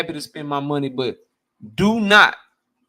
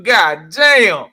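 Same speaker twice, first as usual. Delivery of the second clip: imitated hyped fan; 8 dB louder than usual. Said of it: "make a motherfucker be like".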